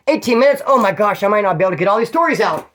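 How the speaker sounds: real surprise. Real, not acted. Narrator checking his watch mid-story, surprised. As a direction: suddenly caught out by the clock. Sees how much time has passed.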